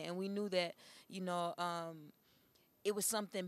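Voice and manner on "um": ordinary delivery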